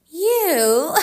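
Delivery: high mocking laugh. A narrator's reading. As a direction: laugh at him scornfully. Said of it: "laughed the woman".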